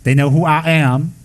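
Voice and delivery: a slow, dismayed spirit voice, lightly put on; alarmed spirit. Spirit caught out by the lamas, slow, mildly alarmed. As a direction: play the spirit realizing it's been found out. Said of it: "The spirit says".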